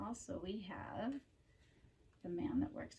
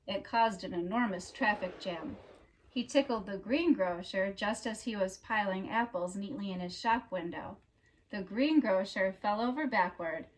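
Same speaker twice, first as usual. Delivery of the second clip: storybook narration; 9 dB louder than usual. A narrator's reading. Reader telling children about Mister Tickle, storybook narration. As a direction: read it like a picture book for children.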